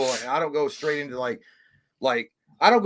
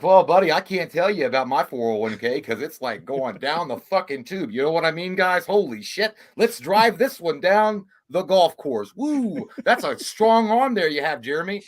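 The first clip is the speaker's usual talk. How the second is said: louder, higher back-slapping golf talk; hearty golfer buddy; 3 semitones higher, 4 dB louder than usual. Retold or imitated. Man with golfers putting on hearty golf buddy talk. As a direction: hype your golf buddies. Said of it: "if you're with the golfers".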